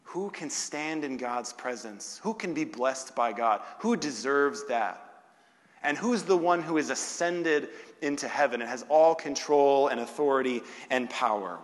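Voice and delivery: emphatic preacher, building in volume; forceful preaching. Real, not acted. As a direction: drive the questions home to the congregation. Preaches rhetorical questions at force.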